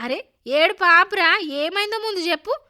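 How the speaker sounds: loud, high scolding concern; insistent mother. A narrator's reading. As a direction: cut into the crying and demand answers. Mother orders crying son to stop.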